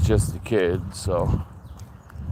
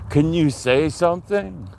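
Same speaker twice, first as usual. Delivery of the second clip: paranormal investigator; 5 semitones higher than usual. Pretend. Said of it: "You sound like a paranormal investigator".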